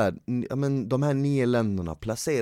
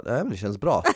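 laughing reply; 3 semitones lower than usual. Retold or imitated. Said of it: "Han bara".

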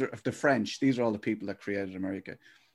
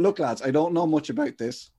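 mock author pitch; 4 semitones higher than usual. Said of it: "my book will be going".

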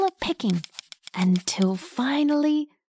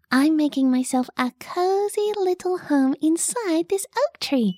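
high cheery bug voice; friendly little caterpillar; 4 semitones higher than usual. Acted. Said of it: "Squish said".

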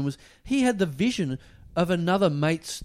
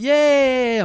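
mock driver brush-off; 10 semitones higher, 7 dB louder than usual.

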